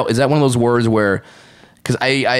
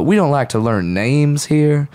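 slow, raised Southern drawl; mock Southern accent; 4 semitones higher, slower than usual. Joking about a Southern thing, slow Southern drawl. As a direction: draw it out in a put-on Southern accent. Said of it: "I wonder if that's a Southern thing".

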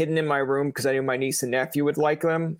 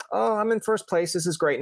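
cheery gloating; 4 semitones higher than usual. Retold or imitated. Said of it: "that's when it comes out".

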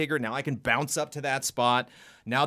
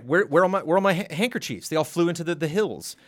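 put-on higher, louder little girl fretting about her handkerchiefs; 4 semitones higher, 3 dB louder than usual. Girl searching the hills for her handkerchiefs, lightly voiced worry. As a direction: play a lost little girl, a touch higher. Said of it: "this little girl is like".

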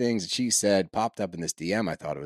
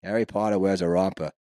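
put-on Boston accent; 2 semitones lower than usual. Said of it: "in a Boston accent".

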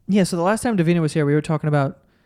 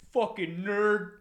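slow, sneering jock insult; jock bully; 4 semitones higher, 9 dB quieter, much slower than usual. Pretend. Jock shoving a nerd into a locker, sneering. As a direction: play the locker-room bully. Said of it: "jock who's shoving people".

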